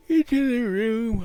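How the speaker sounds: sudden loud high "into the room"; booming "into the room"; loud shout. Shown as a demonstration. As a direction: blurt "into" loud and high, then check yourself.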